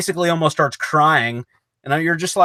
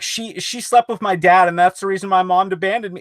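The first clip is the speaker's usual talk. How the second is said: higher, mildly mocking whine; mock whining; 4 semitones higher than usual. Friend parodies the killer blaming his dad's affair, mock whine. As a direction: parody a self-pitying excuse, pitched up. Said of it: "whining like a baby".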